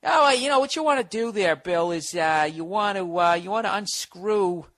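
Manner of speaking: high, halting mock-dad voice; hesitant advising dad. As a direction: stall and fumble through handyman advice. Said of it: "he's just like".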